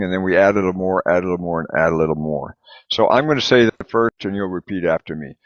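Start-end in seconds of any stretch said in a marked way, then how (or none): 0.0-2.6 building up piece by piece. Shown as a demonstration. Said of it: "we start from the end and we start pronouncing".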